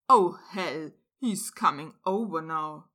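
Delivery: alarmed. A narrator's reading. Ron alarmed at Malfoy.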